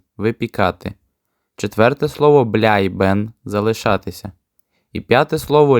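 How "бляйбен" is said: бляйбен said the German way; German word demo. Shown as a demonstration. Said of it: "читаються ось так". (бляйбен німецькою вимовою)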